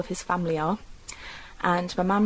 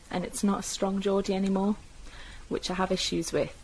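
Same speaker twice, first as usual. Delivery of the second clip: ordinary delivery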